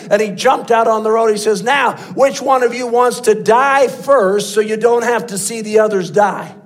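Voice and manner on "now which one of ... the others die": put-on shouted threat at the boys; voiced as a boy ready to shoot; menacing threat. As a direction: bark it like a gun-waving threat. Preacher acts Branham's threat.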